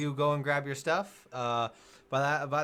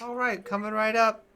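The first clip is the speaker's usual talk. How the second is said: cheerful barmaid; 8 semitones higher, 4 dB louder than usual. Acted. GM voices barmaid.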